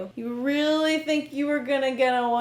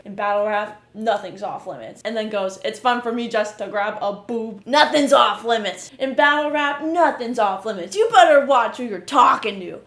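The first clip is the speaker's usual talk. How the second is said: imitating the rapper's brag, louder as it builds; hammed-up rap bravado that swells to loud; mock battle rapper; 6 dB louder than usual. Mocking the rapper's freestyle intro, a loud mock rap boast. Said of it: "he starts off the video like".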